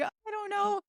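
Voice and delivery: high, lightly acted nervous reply; nervous patient. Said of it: "I was so nervous".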